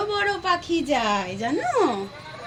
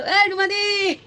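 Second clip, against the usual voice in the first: put-on higher call for baby to copy; calling out demo; 4 semitones higher than usual. Shown as a demonstration. Mother showing her baby how to call Ruma di. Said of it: "বলো".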